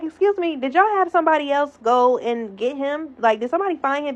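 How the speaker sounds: high, polite question. Retold or imitated. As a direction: sweetly ask the officers. Asks officers politely.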